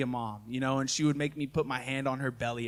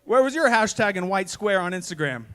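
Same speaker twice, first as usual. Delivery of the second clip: higher, playful jab at her; teasing jab; 4 semitones higher than usual. Retold or imitated. Husband teases wife about her hashtag, playfully needling. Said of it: "I was like".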